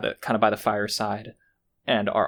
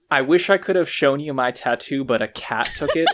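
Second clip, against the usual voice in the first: laughing quote; 4 semitones higher, 6 dB louder than usual. Retold or imitated. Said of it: "is the wildest sentence I've ever heard".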